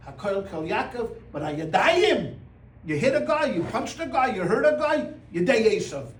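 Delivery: mock-scold the kids like the old teacher. Teacher telling off fighting boys, mildly scolding. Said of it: "what would the teacher say to us?".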